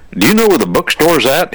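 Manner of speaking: high, eager question from a new student; excited kid. Retold or imitated. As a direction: blurt it out like a thrilled freshman. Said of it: "He was excited".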